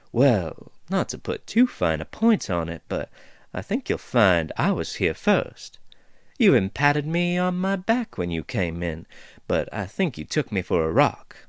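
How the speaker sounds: lightly voiced folksy dwarf, amused; easygoing dwarf teasing the intruders; chatty dwarf woman. Dwarf figure speaks.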